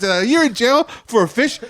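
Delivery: high-pitched, incredulous question; acted-out bafflement at absurdity; retold disbelief. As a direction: question it in mock outrage. Retold shock at absurd sentence.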